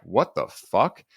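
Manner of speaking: slow, drawn-out mock amazement; acted-out astonishment, word by word; retold disbelief. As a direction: stretch it out as imitated stunned disbelief. Retelling two strangers' stunned reaction.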